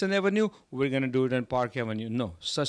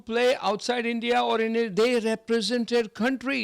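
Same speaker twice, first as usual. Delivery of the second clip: passionate emphasis; 9 semitones higher, 4 dB louder than usual. Real, not acted. Passionate praise of cricketers.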